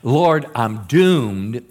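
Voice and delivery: very slow, drawn-out "doomed" with a rising end; mild dread. Retold or imitated. Gideon crying out to the angel of the Lord, slow mock dread. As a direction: stretch "Lord, I'm doomed" into a fearful wail. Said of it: "And he cried out".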